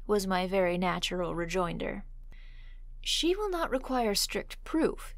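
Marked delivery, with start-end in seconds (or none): 3.0-5.1 eager. A narrator's reading. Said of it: "he continued eagerly".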